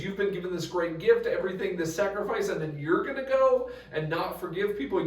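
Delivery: high, loud disbelieving scold half-laughing; God scolding an unforgiving believer, laughing incredulously; incredulous rebuke. Retold or imitated. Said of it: "this image of God, being like".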